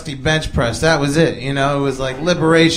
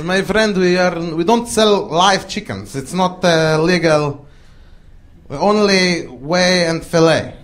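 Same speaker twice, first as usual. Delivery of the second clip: Arabic shopkeeper. Retold or imitated. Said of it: "it's run by an Arabic dude".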